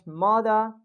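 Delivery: "mother" with British dropped R; British accent. Shown as a demonstration. Teacher shows students the dropped R, British accent. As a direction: end "mother" on an open vowel, British style. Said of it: "If we'll talk about British".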